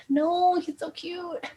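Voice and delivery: high, mock wail that starts loud; hammed-up lovesick protest; dismayed Juliet. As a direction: whine it like a smitten teen. Voices Juliet dismayed at the news.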